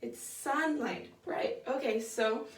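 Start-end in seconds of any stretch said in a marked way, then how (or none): 0.0-1.1 "sunlight" with the weight on "sun", "light" lighter; "SUNlight", first syllable strong; stress on SUN. Shown as a demonstration. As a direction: say it slowly, leaning on "sun" in "sunlight". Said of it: "is it sunlight or sunlight?".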